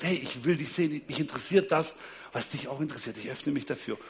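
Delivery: soft voice sinking low; gently sincere. Retold or imitated. Wife opens up to husband's love of films, gently sincere. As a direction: quietly offer openness, imitating a loving partner. Retold wife opening up to him.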